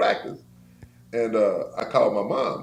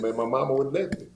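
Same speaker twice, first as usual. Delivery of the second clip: laughing; 6 semitones higher than usual. Real, not acted. Own reply with laugh.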